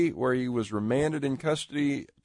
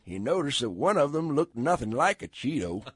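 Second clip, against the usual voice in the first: put-on old mountain storyteller; 4 semitones higher than usual. Shown as a demonstration. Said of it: "an old mountain storyteller".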